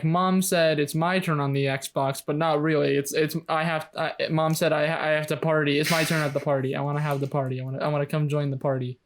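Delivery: rambling, repetitive kid impression; lightly imitated pestering boy; Max's whiny insistence. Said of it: "he says it exactly like that".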